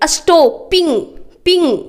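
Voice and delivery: स्टॉपिंग said clearly, then पिंग repeated alone; pronunciation demo. Shown as a demonstration. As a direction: model स्टॉपिंग for the class, echo पिंग. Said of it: "इसका pronunciation करिए". (स्टॉपिंग का उच्चारण, पिंग दोहराकर)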